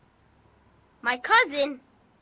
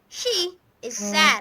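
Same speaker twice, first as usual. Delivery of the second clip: a slow, mildly tearful "she is sad"; acted sad voice. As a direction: let the voice sink a little for the sad sister. Child acting out sad sister.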